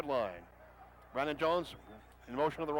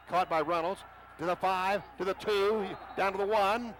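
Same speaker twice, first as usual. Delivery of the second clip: excited call; 3 semitones higher, 3 dB louder than usual. Real, not acted. Catch and run call.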